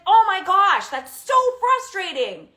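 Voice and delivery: put-on match the teen's anger out loud; frustrated outburst. Shown as a demonstration. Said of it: "you be like".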